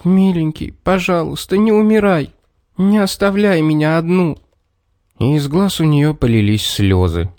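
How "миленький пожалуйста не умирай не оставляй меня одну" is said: high, tearful plea; plaintive pleading. A narrator's reading. Girl pleading over the dying little man, high plaintive plea. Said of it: "только жалобно повторяла".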